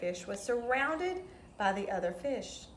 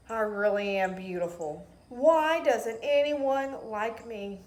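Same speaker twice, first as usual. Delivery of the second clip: plaintive pleading; 7 dB louder than usual. Acted. Rainbow fish voiced in story.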